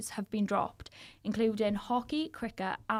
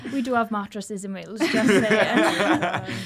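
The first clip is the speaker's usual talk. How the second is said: laughing; 9 dB louder than usual. Real, not acted. Joking about cardboard beds.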